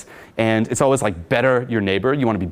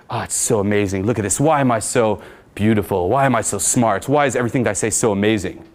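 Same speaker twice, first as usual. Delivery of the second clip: obnoxious vanity; 2 semitones lower than usual. Shown as a demonstration. Telling girls, obnoxious mock self-praise. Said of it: "be obnoxious like that".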